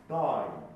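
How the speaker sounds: ダイン with a pure ai sound; clear Dine. Shown as a demonstration. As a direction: say ダイン with the D right into a clear アイン, no え. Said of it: "こういう感覚です". (クリアなアインでダイン)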